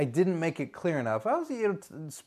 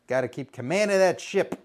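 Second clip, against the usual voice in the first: ordinary talk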